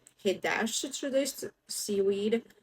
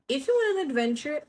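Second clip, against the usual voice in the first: squawking seagull; 6 semitones higher, 4 dB louder, faster than usual. Acted. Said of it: "he squawked".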